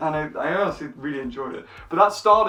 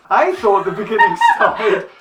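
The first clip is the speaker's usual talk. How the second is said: laughing; 4 semitones higher, 6 dB louder than usual. Real, not acted. Laughs while speaking.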